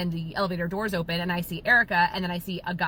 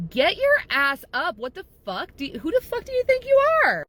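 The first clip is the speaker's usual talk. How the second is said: mock-furious shout, rising much higher and louder; retold outburst, pitch shooting up into a yell; 11 semitones higher, 5 dB louder than usual. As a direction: blow up at him from nowhere. Furious at boyfriend sitting down.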